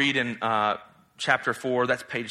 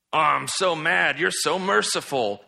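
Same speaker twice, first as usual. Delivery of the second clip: mock whiny complaint, slightly raised; Jonah; 2 semitones higher than usual. Preacher mocking Jonah's anger at God's mercy, mock mad. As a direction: grumble absurdly about mercy, hammed up. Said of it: "said no one ever except for Jonah".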